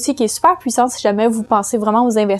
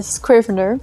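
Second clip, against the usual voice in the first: "Scrivener" said as an English word with a French accent; English pronunciation; slower than usual. Real, not acted. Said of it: "la prononciation est bien évidemment anglophone".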